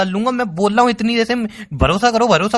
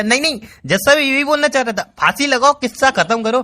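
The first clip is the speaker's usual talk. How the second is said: higher, mocking voice of someone who won't let him speak; mocking imitation; 6 semitones higher than usual. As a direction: parody her cutting him off, pitched up. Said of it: "अरे मैं कुछ और बोलना चाह". (ऊँची आवाज़ में मज़ाक उड़ाती नकल)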